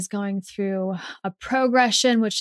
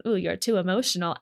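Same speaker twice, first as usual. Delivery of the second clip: sassy mock; faster than usual. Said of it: "that sassiness around".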